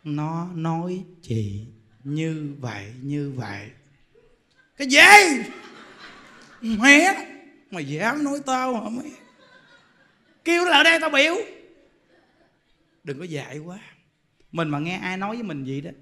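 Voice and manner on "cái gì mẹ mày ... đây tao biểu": loud, higher, with a laugh; furious outburst. Retold or imitated. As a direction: explode at the gossip. Woman flares up hearing gossip. (giọng giận dữ, la lớn)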